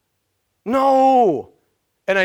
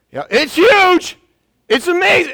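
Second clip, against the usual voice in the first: mock amazement; 9 semitones higher, 5 dB louder than usual. Preacher acts out praising God.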